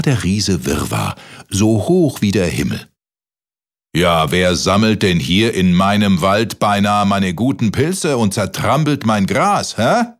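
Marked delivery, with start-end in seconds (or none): 4.0-10.1 thundering giant. Acted. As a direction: boom down at the little boy. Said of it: "donnerte der Riese von oben".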